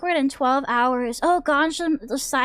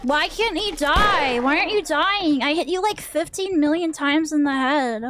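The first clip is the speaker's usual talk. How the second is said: frustrated; 3 semitones higher than usual. Real, not acted. Shooting an enemy that won't die, exasperated whine.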